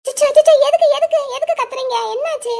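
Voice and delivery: put-on teacher startled by a shouting child, calming him; alarmed soothing. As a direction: rush in to calm the shouting child.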